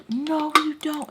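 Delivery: high, drawn-out mock protest; imitated upset retort. Storyteller mimicking her tearful ex arguing back, high mock protest. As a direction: stretch it out high, like a wailed contradiction.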